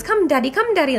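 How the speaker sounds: put-on high little-kid plea, rising; a small boy tugging to leave; toddler voice. Son begging his daddy to go, in a high child's voice.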